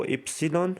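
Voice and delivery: Y named اپسلون; Italian letter name. Shown as a demonstration. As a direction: drill اپسلون syllable by syllable. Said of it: "Y کو".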